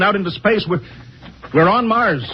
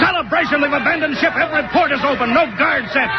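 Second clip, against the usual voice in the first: alarmed disbelief; 8 semitones higher than usual. Acted. Captain finds ship abandoned.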